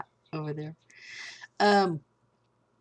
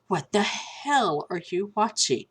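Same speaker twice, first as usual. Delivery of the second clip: slow, drawn-out "what the hell"; mildly incredulous, words stretched out; retold disbelief. House cleaner walking in on an awful movie, retold disbelief. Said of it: "she's like".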